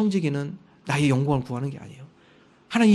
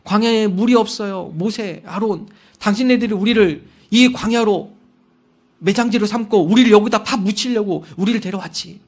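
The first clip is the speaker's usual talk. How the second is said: loud, higher, resentful complaint; complaining crowd; 3 semitones higher, 6 dB louder than usual. Retold or imitated. Israelites blaming Moses and Aaron, loud and resentful. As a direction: grumble at Moses like an angry mob. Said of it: "불평이 넘어서 이제 원망까지 합니다".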